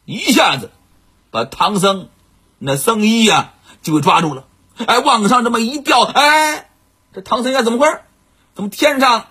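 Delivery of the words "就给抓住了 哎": ordinary delivery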